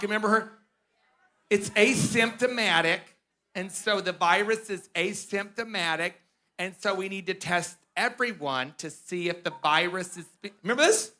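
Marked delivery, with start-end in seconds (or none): 1.5-10.3 Deborah Birx impression. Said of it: "And she would talk like that".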